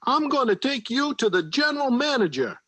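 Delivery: angry boss dressing down the bear; mad foreman. Acted. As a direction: scold the bear like a fool. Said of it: "He was very mad".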